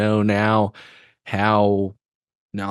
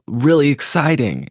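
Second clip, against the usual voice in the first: higher-pitched, half-sarcastic enthusiasm; sort of sarcastic; 6 semitones higher than usual. Real, not acted. Host to viewers still watching the interview, mildly sarcastic. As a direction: talk it up with a touch of sarcasm. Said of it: "I say that sort of sarcastically".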